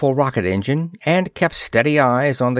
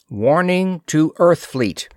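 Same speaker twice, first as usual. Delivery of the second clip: slow, raised announcing tone; message read-out; 7 semitones higher than usual. A narrator's reading. Warning message from the moon, slow and raised read-out. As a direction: read the warning out slowly, pitched up.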